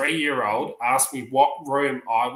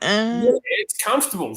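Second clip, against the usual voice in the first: put-on higher-pitched old-lady reply; imitated elderly lady; 9 semitones higher than usual. Other lady answering the resident, imitated high voice.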